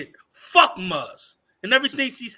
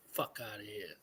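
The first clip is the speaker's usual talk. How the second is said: under-the-breath whispered dismissal; whispered aside; 13 semitones lower, 25 dB quieter than usual. Real, not acted. After ranting at his critics, a bitter whispered aside.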